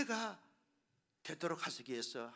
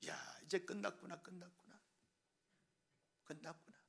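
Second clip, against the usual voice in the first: despairing; 11 dB quieter than usual. Retold or imitated. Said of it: "두려움과 무서움과 공포에 떨게".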